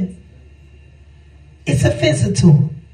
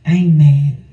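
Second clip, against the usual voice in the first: soothing; 4 semitones lower than usual. Pretend. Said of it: "you be like".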